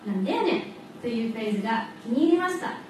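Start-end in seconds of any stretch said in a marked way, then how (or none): 0.1-0.6 Osaka-dialect catchphrase, lightly performed. Shown as a demonstration. Student showing her favourite phrase, Osaka dialect. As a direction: quote it with an Osaka lilt. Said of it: "私は大阪弁の".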